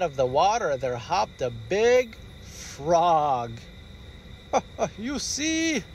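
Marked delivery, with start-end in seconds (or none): 4.3-4.9 short laugh. Acted. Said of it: "Daddy laughed". 5.0-5.8 laughing. Acted. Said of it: "Daddy laughed".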